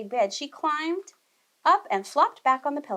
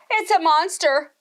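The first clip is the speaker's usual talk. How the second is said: higher, louder, slow moan; moaning mama bear; 7 semitones higher, 8 dB louder than usual. Acted. Mama Bear frets over the intruder, slow higher moan. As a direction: moan it out, drawn and dismayed. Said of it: "moaned Mama Bear".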